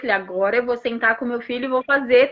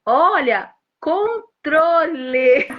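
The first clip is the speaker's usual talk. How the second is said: "controle" stretched very slowly, syllable by syllable, ending in a laugh; big sister modelling words slowly for her little brother; slow exaggerated speech demo; 4 semitones higher, much slower than usual. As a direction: spell out each syllable the way a speech therapist would. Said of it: "ela faz assim".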